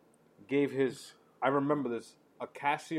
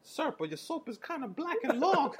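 laughing through it; 11 semitones higher, 3 dB quieter than usual. Retold or imitated.

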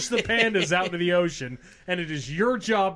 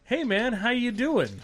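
casual bear sizing up a meal. Retold or imitated. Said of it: "Our bears will look at you and be like".

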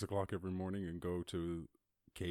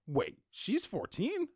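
much higher, louder incredulous squeal; shocked disbelief; 13 semitones higher, 4 dB louder, slower than usual. Real, not acted. Hearing a fourteen-year-old earned a master's, high shocked squeal. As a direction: shriek in disbelief at the news.

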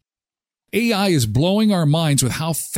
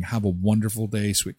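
tender message; 5 semitones lower, 5 dB quieter than usual. Retold or imitated. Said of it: "It will be my voice saying".

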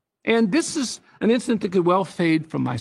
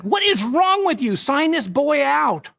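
inner scolding voice; 7 semitones higher, slower than usual. Retold or imitated.

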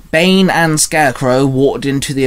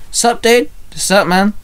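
casual bro greeting; 8 semitones higher than usual. A narrator's reading. Two friends greeting each other.

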